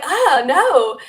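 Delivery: loud, high mock cry of dismay; retold alarm. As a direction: act out being rushed at, high and loud. Retells entities flying at her.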